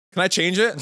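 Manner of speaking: put-on loud, high whiny kid; pushy kid. Son asking to swap his candy, loud and high. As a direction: demand it like a picky child. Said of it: "he'd be like".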